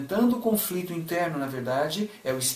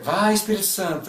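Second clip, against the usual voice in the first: cheerleader; 3 semitones higher than usual. Pretend. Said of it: "fazer torcida pro Espírito Santo?".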